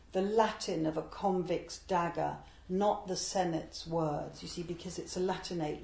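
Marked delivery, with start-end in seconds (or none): 0.1-4.4 slow, weighted lines of verse; poem recital. Acted. Reading the poem aloud to listeners, slow recital. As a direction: lean into Latin and let the line settle.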